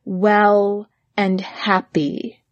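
very slow, drawn-out words; slow repeat. Shown as a demonstration. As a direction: stretch each word slowly.

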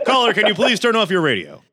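late-night radio host voice; Art Bell. Acted. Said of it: "That was so Art Bell".

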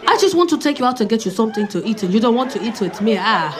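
put-on pleading, lightly accented suitor; mock African accent. Rejected suitor begging her to call, mock accent. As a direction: coax her to call back. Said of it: "this is what the voice note says".

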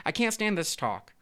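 high, drawn-out exasperation; interrupting protest. A narrator's reading. Fish who cannot bear the threats, exasperated protest. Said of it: "interrupted one of the fish".

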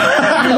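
high laugh; daughter's laugh. Retold or imitated. Dad retells daughter's reaction, high laughing. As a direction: imitate a daughter bursting into laughter. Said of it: "หัวเราะขึ้นมา".

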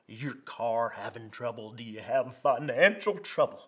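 mock Texas TV preacher working the crowd; hammed-up Texas accent, loud in the middle; Texas televangelist accent. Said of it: "I'm gonna do my Texas accent here".

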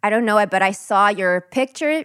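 put-on General American accent. Shown as a demonstration. Host responding to co-host's matcha picture, American accent. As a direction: react like an American. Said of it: "we'd talk in an American accent".

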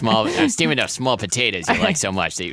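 put-on accent slipping off course; wandering British accent. Mother chatting about potatoes, wobbly British accent. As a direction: attempt British and let it wander. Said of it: "where are you from now?".

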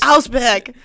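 loud caricature German "Augsburg"; German accent. Pretend. Butting into friend's news story, loud mock German. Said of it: "That was very German-like".

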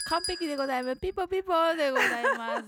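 high, fast game-show praise; excited quiz host. Acted. Quiz-show correct-answer chime.

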